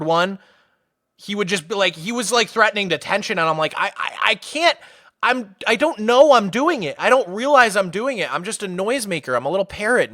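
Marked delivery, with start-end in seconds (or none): 3.8-10.1 mild mock plea, stammering start; helpless pleading. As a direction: plead your helplessness in a higher voice. Acted helpless plea to threatening teacher.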